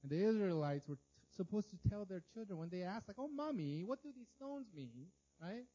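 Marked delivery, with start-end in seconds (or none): 3.2-5.1 put-on high, young child asking mommy; mild childlike question; child's voice. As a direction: play the curious little kid. Child asking parent in retold scene.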